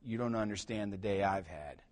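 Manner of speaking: a hint of an exhausted mother; wife shushing husband after bedtime; tired wife. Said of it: "And she's like".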